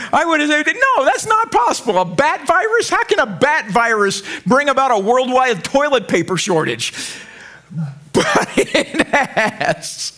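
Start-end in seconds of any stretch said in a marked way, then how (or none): 0.1-6.9 high, incredulous scoffing; mock disbelief. Pastor scoffing at a bat virus causing shortages. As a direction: scoff at the very idea. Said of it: "I would have laughed at you".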